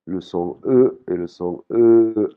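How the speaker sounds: E court puis E long, bien étiré; contraste voyelle courte et longue. Shown as a demonstration. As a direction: fais entendre la différence de longueur. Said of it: "des voyelles courtes et des voyelles longues". (le premier E bref, le second E tenu)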